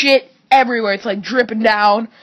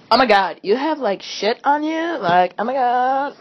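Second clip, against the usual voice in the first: lightly voiced shocked teen girls, barely changed; a hint of gossiping teenage girls, gasping at the mess; imitating teenage girls; 3 semitones higher than usual. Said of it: "Actual voice, actual quote".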